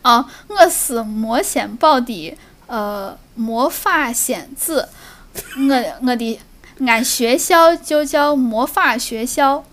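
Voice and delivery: slow Shaanxi dialect, playful; slow, deliberate Shaanxi speech; Shaanxi accent. Shown as a demonstration. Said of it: "你进步了好多".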